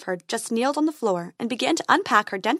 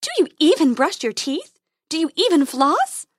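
fairy voice; 6 semitones higher, 6 dB louder than usual. Acted. Fairy scolding.

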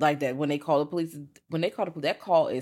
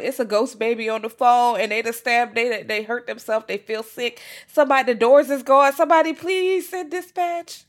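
much higher and louder, a mock frantic plea; panicked dispatcher; 8 semitones higher, 7 dB louder than usual. Dispatcher calling for backup, hammed-up panic. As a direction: beg for help in a rising panic. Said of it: "They just like".

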